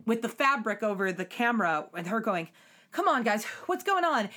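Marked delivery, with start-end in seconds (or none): 2.9-4.3 high, mildly acted plea; light mock protest, rising in pitch; pleading captive. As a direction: imitate a confused captive appealing to them. Voices hooded captive's plea.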